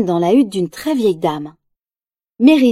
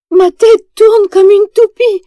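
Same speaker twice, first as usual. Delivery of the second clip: high, slow woozy voice; dizzy queen; 11 semitones higher, 7 dB louder, slower than usual. Acted. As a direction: sound faint and spinning. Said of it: "dit-elle".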